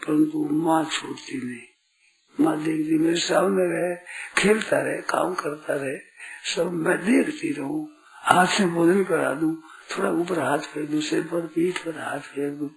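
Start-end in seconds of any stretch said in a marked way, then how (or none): 3.0-12.7 lightly voiced fond mother, softening gradually; doting mother. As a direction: let a mother's fond wish soften away.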